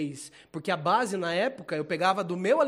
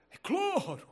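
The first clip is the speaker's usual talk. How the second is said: squeaky of course; 11 semitones higher, much slower than usual. Pretend. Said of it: "mock Of course, higher".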